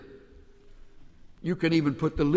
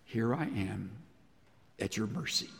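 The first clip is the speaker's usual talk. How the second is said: humble surrender; 5 semitones lower, 8 dB quieter than usual. Pretend. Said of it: "He simply said".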